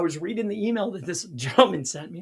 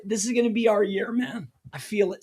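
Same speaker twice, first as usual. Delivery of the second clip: tired hoarse voice. Real, not acted. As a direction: talk through a worn-out hoarse throat. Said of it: "Sorry, my voice".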